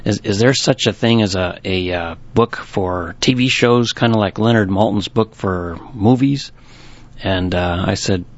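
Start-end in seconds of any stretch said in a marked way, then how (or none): 0.0-6.5 lightly voiced old newspaperman asking a question; a hint of a retired newspaper guy's voice. Retired newspaper customer phones the bookshop owner, lightly imitated. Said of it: "He talks like this".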